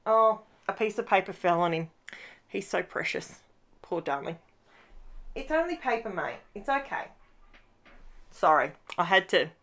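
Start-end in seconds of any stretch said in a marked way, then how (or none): 2.5-4.4 soft, doting murmur to a pet; tender to the dog. Real, not acted. Fussing over dog under desk. 5.3-7.1 soft, reassuring pet talk; calm the startled dog quietly; soothing the dog. Real, not acted.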